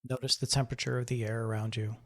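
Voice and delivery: calm, measured meditation voice with long pauses; guided meditation. Acted. Host guiding listeners to breathe and notice the body, guided meditation. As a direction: ease them gently through breath and body awareness.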